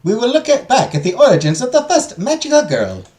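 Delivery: a hint of a lilting, high-pitched teacher; lecturing teacher character. Teacher tells students about the first magical girl, lecturing.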